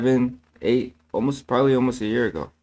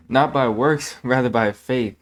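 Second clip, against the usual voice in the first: NOT stressed, slightly louder and laughing; corrected verse; 4 dB louder than usual. Real, not acted. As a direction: correct yourself and lean on the word Not. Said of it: "no, I'm sorry".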